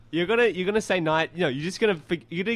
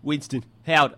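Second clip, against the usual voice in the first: slow, emphatic politician impression; drawn-out mock statesman delivery; John Howard; 4 dB louder than usual. Shown as a demonstration. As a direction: impersonate a prime minister, measured and loud. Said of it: "was John Howard's".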